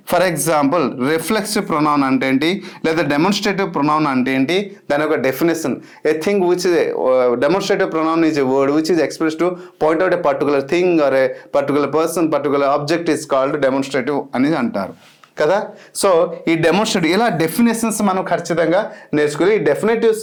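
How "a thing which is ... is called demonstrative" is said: slow, careful reading of a definition; slow recited definition. Acted. Teacher to students, slow dictated definition. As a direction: spell the definition out slowly.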